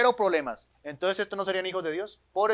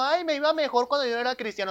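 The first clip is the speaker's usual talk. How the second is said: mock complaining believer; 5 semitones higher than usual. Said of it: "el que no entiende eso diciendo".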